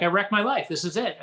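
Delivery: half-playful alarmed outburst; mock panic. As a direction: blurt it like your world just ended. Panicked thought after mentor quits.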